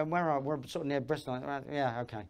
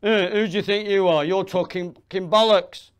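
loud, higher, confrontational heckler; öfkeli heckler; 3 semitones higher, 8 dB louder than usual. Acted. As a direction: square up and challenge them loudly. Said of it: "Steps up and says".

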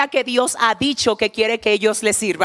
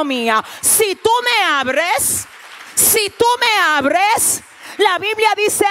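mounting shout; 5 semitones higher than usual. Acted. God voiced pleading at the door.

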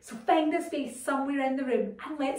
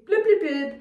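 shouting underwater; 3 semitones higher, 5 dB louder than usual. Shown as a demonstration. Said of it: "but you would say".

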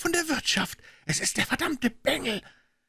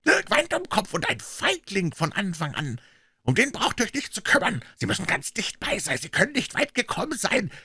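high, strained scolding; angry tirade; 12 semitones higher than usual. A narrator's reading. Puh cursing his idle men, angry tirade. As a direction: berate the gang and push them on.

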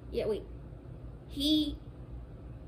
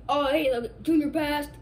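dad voice; 7 dB louder than usual. Pretend. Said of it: "I'm gonna do a voice as my dad".

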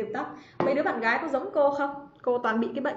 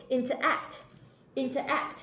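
Interact with the final "act" stressed; stress on third syllable; 4 dB quieter, slower than usual. Shown as a demonstration. Teacher models Interact for students, stress on last syllable. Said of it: "trọng âm rồi vào âm thứ ba".

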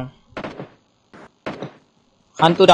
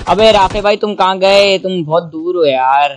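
calling out; 5 semitones higher, 5 dB louder than usual. Real, not acted. Calling distant teammate.

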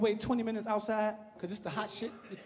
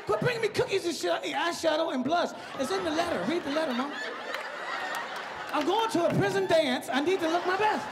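arguing with mama; 4 semitones higher than usual. Retold or imitated. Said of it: "I gotta argue her at the table".

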